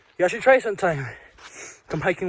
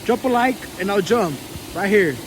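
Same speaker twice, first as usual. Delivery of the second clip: excited call out; 4 semitones higher, 4 dB louder, much slower than usual. Real, not acted. Calling out from the summit.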